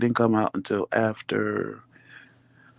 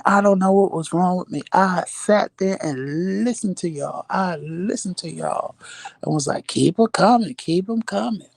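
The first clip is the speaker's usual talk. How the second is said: mimicking drunk husband; 8 semitones higher than usual.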